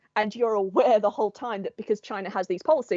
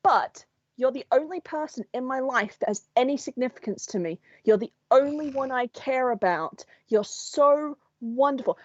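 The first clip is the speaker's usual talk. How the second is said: mock devoted soulmate; 4 semitones higher than usual. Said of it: "They'll be like".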